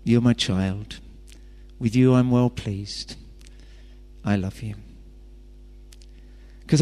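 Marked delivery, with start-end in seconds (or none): 0.0-4.7 low, soft and tender; whisper-close reassurance to a child; the Father's voice. Acted. Father reassuring the listener as the day starts, softly.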